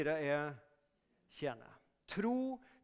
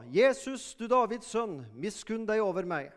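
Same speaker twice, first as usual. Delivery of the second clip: calling out; 6 dB louder than usual. Retold or imitated. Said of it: "han ropte og sa".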